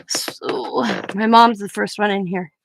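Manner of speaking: fighting real tears; crying. Real, not acted. Showing her mom's memorial card.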